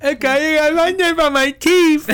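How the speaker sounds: high, loud, drawn-out silly whine; loud, stretched-out goofy cry; silly mouthful voice. Acted. Mocking a silly quote, candy talk.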